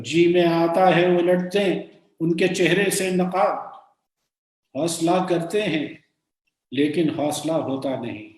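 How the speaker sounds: sustained, lilting Urdu verse; measured ghazal reading; poem recitation. Acted. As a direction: declaim the couplet, falling at each refrain. Recites a couplet.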